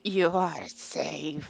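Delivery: slow, drawn-out deep voice; low, slow in-character reassurance. Acted. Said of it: "go in a deep voice".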